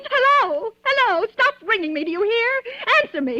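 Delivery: high, loud panic into the phone; frantic shouting. Acted. Terrified woman yelling at a silent caller, high and loud. Phone rings again, nobody there.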